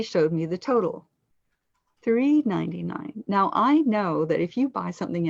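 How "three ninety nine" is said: emphasize the word three; three stressed and raised, then ninety-nine. Shown as a demonstration. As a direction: lean on three, pitched higher. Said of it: "she needed to emphasize the word three".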